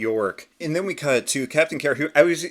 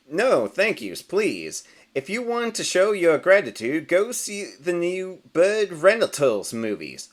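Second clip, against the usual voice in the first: a bit higher, slowing for the plug; a hammy actor selling his movie; showbiz duck; 5 semitones higher, slower than usual. Acted. Rubber Duck plugging a movie.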